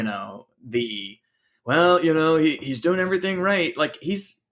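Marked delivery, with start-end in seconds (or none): 1.6-3.8 mocking. Mocking excuse-makers.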